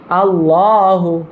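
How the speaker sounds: আল্লাহু drawn out slowly with a full, thick la; model pronunciation. Shown as a demonstration. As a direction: stretch আল্লাহু slowly so the la sounds heavy. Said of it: "আবার বলেন".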